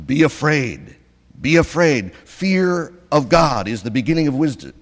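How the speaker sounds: stern warning. Retold or imitated. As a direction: proclaim fear like a stern prophet.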